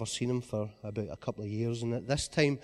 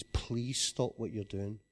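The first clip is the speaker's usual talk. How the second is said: slow, soft and tender plea; loving voice; 4 dB quieter, slower than usual. Retold or imitated. A man in a robe gently begging Jimmy, slow and tender. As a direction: plead gently, like love itself asking. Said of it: "in the most loving voice I've ever heard".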